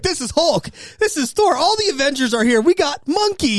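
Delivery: high, lilting Indian English imitation; Indian accent impression. Podcaster mimicking Indian food vlogger, high Indian accent. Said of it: "He's like".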